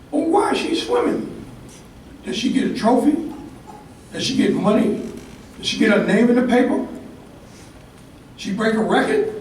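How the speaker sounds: a hint of a small boy questioning his dad; young boy asking. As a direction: ask it like a curious little boy. Kid voiced asking his father.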